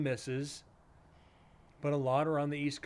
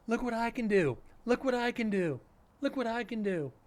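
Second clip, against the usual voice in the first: put-on much higher, childlike show-off voice; Stewart impression; 9 semitones higher than usual. Streamer mocking proud new moderators, high show-off Stewart voice. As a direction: squeal it repeatedly, begging for attention. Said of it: "It's like Stewart".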